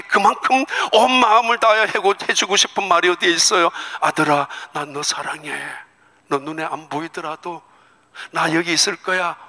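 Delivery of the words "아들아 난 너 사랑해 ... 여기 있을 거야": tender parent. Acted. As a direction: comfort a scared child. Parent to child before surgery.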